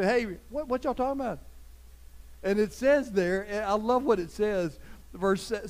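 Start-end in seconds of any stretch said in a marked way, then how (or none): 0.0-1.4 casual Jesus. Retold or imitated. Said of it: "Just kinda walking".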